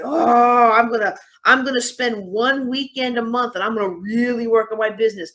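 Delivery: mock resolve with a loud, drawn "oh"; sarcastic. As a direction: sarcastically play the over-eager go-getter. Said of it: "can't tell the sarcasm in my voice".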